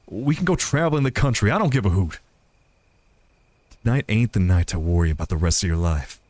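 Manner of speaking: lightly voiced sincere sweetheart in a story; lightly acted heartfelt speech; Joseph, earnest and reassuring. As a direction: confess it, then reassure your partner.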